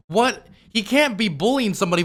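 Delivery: high loud disbelieving what; stunned rising what; incredulous what. Real, not acted. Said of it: "disbelief at mocking".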